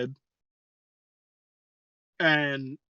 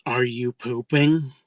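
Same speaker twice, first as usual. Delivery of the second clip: slow, creepy stranger impression; quiet, lighter voice; slower than usual. Stranger asking someone in a stall, quiet creepy voice. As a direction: draw it out like a bathroom creep. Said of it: "just a lighter voice quietly say".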